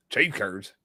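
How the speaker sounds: low-pitched Wisconsin store clerk; Wisconsin accent. Acted. Grocery store clerk asked for cheese curds, Wisconsin accent. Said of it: "if you were at the store in Wisconsin".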